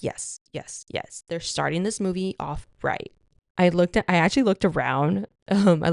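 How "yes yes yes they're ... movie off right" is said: hushed thrilled whisper, much softer; excited whisper. Retold or imitated. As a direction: whisper it like you can't contain yourself in the theater. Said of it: "I was just like".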